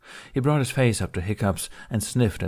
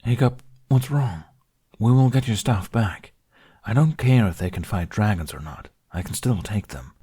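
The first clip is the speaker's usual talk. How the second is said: louder, pressing and anxious; worried, urgent plea; 5 dB louder than usual. Acted. Dragon pleading with his upset friend, loud and worried. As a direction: urge him not to give up.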